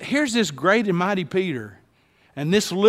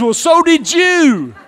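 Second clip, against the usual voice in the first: higher, louder, laughing retort; laughing comeback; 11 semitones higher, 8 dB louder, slower than usual. Shown as a demonstration. Neighbor answering the pastor's prompt, laughing comeback. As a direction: fire it back with a laugh. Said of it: "Look back at him and says".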